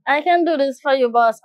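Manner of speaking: a light Jamaican lilt on the reply to the boss; lightly put-on Jamaican patois; Jamaican accent. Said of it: "I don't know why I'm talking like this".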